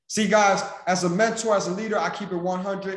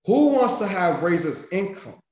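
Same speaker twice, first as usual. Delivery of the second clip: louder, punchy question to fire up the room; rallying call-out to the crowd; 3 semitones higher, 5 dB louder than usual. Real, not acted. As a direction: pump the audience up. Hyping crowd call and response.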